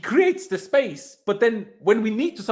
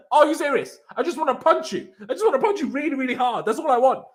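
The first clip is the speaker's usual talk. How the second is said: mock fury with laughter; 5 semitones higher than usual. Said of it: "I'm like".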